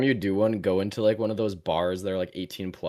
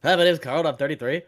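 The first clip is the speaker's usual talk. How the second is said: higher, louder laughing mimicry of the Carl line; mock his friend's Carl bit, louder; 5 semitones higher, 8 dB louder than usual. Friend mocks the Carl joke back at him, loud mimicry. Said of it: "that was the entire joke".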